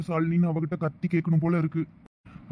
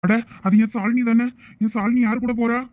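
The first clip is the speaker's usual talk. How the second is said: desperate pleading; 7 semitones higher than usual. Acted. Pleading with wife leaving him.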